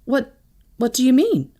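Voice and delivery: uneasy, halting question; faltering. A narrator's reading. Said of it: "I faltered".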